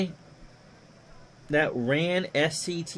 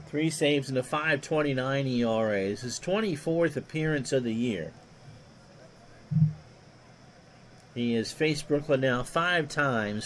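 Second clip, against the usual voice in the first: lightly voiced old radio play-by-play; a hint of a veteran baseball announcer; Ron Juckett impression; 3 semitones lower than usual. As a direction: call it like a ballpark broadcaster, easy and even. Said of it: "I do a mean Ron Juckett impersonation".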